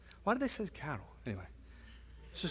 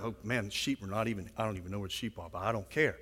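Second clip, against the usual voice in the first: awestruck shepherd; 10 semitones lower, 10 dB quieter than usual. Retold or imitated. Shepherds voiced, too awed to care.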